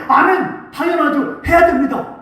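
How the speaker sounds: eager shout. Retold or imitated. Church eagerly promising to give.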